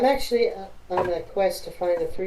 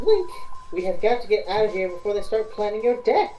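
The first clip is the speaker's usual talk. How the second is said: higher, pressing plea to leave; urgent warning; 4 semitones higher than usual. Acted. Zelda urges Link to flee before the gang plans his death. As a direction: hurry him out, worried.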